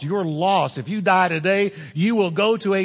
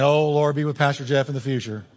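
mock pious prayer; 5 semitones lower than usual. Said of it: "Some of you are saying".

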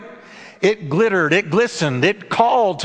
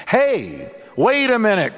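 mild, pitched-up narrated call; calling after someone; 4 semitones higher than usual. A narrator's reading. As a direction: call out to stop someone, without shouting. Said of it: "cries Jake after the stranger".

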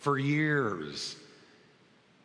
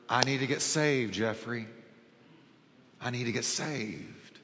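tearful plea; 3 semitones lower, 3 dB quieter than usual. Retold or imitated. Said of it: "there's tears streaming down her face".

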